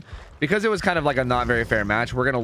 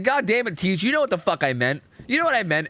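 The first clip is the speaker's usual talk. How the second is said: higher-pitched mock protest of a pupil; exasperated child; 7 semitones higher than usual. Five-year-old answers pedantic teacher, exasperated higher-pitched mock complaint. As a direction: protest to teacher like a fed-up kid. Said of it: "that's how I talked as a five-year-old".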